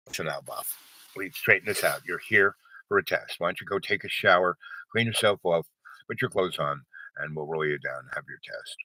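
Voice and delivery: smooth things over like a calm boss; lightly voiced reassuring executive. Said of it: "a more calm but higher level".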